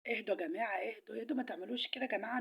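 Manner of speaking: calming plea. Acted. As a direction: settle everyone down gently. Calming the quarreling vegetables. (تهدئة بصوت واطي)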